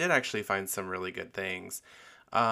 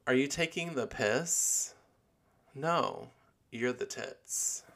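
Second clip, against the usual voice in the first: British accent imitation; 4 semitones higher than usual. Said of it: "that's British speak".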